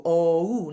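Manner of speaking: "O-oo" gliding dark O into oo; o-oo diphthong. Shown as a demonstration. Coach models the diphthong in flows. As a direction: round from dark O to oo. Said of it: "We now have an O-oo sound".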